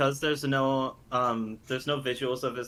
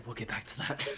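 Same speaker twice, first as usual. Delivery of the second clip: whispering; 3 semitones lower, 8 dB quieter, faster than usual. Retold or imitated. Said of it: "I whispered".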